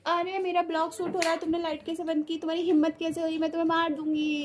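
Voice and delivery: high-pitched playful threat; hammed-up vlogger tantrum; mock angry scolding. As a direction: pretend to be furious about the blog. Mock scolding over light cut.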